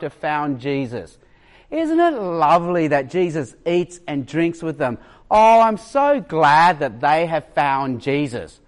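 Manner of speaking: lightly mocking, syrupy delight; a hint of condescending praise; patronizing gushing. Churchgoer gushing over converted sinners, mildly patronizing. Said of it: "you just gotta hear how it sounds".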